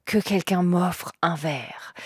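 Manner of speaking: slow, softened, half-whispered line; weary closing plea. Acted. Storyteller voicing a drinker who asks for a glass, slow and hushed. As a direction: let it trail slowly towards a whisper.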